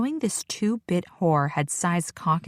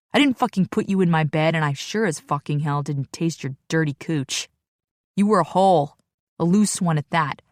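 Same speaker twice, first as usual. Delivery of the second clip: angry. Acted. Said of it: "Sai sounds angrier by the minute".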